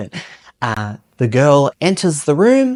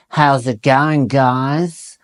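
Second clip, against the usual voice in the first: louder, forward-placed blokey greeting; butch voice; 4 dB louder, much slower than usual. Shown as a demonstration. Drama teacher demoing masculine voice, butch greeting. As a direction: push the voice to the front of the mouth. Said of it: "That's the front of the mouth".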